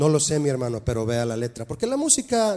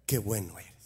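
mock self-flattery; 9 semitones lower, 10 dB quieter than usual. Flattering himself at the mirror.

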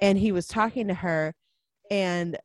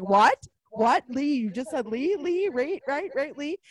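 mock incredulous; 7 semitones higher than usual. Detective seizing on the name.

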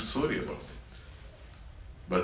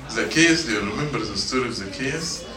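excited call; 4 semitones higher, 6 dB louder than usual. Real, not acted. Excitedly calls to the children.

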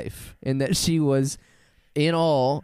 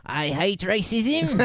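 slow, higher put-on comic voice; Nanette impression; 7 semitones higher, slower than usual. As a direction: draw the line out slowly as a mock earnest performer. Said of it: "I can do a good Nanette".

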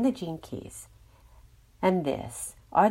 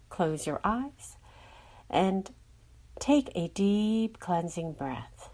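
soothing, even meditation voice; guided meditation. Acted. Guide leading listeners to release stress, soothing meditation voice. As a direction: guide them gently through each breath.

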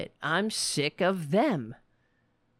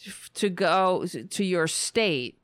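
mock whining; 4 semitones lower than usual. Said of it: "whining and saying".

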